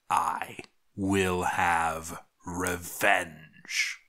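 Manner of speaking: low, hushed menace with whispered edges; a dead man swearing revenge from beyond; vengeful dead villain. Acted. Dead dwarf vows revenge on the fortress, low and menacing.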